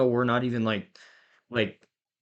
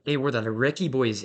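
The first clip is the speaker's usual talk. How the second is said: lightly imitated Scottish accent; 3 semitones higher than usual. Scottish soldier calling out his unit's name, lightly imitated Scottish accent. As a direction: retell it with a hint of Scottish. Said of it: "in a Scottish accent".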